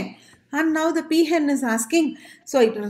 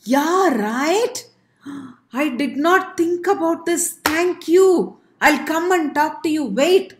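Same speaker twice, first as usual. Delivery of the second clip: excited peahen; 3 semitones higher than usual. Acted. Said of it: "The peahen was like".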